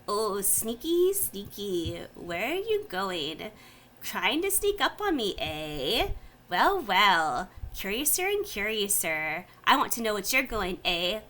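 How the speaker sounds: a mad little creature muttering, lightly voiced; half-mad goblin thing, curious and mocking; muttering Nilbog. The Nilbog mutters back at the sneaky goblin, lightly voiced. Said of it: "Muttering back to her".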